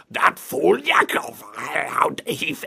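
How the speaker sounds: slow, garbled villain imitation; mock villain, words dragged out; big burly villain. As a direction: mangle it slowly like the bad guy. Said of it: "the big burly guy says".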